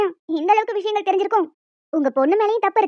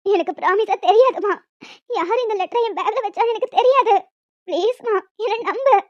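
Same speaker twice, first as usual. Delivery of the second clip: tearful pleading. Acted. Daughter begs mother.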